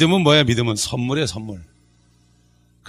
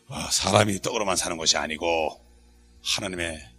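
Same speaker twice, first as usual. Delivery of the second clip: low, soft, solemn intoning; pious scriptural reply; 9 semitones lower, 8 dB quieter than usual. Shown as a demonstration. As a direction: recite it quietly as a godly comeback. Models scriptural reply to money trouble. (낮고 엄숙하게 읊조림)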